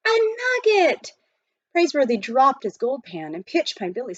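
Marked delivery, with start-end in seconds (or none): 0.1-1.1 higher, louder excited yell across the ravine. A narrator's reading. Boy yelling to the miners about his gold nugget, loud and excited. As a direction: call the find out to the whole ravine. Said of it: "his yell carried from one end of the ravine".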